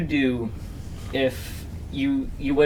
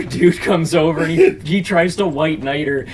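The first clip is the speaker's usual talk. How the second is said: normal talking voice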